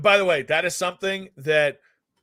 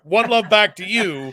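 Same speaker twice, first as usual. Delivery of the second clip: heartfelt; 4 semitones higher, 6 dB louder than usual. Retold or imitated. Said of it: "I mean it from the heart".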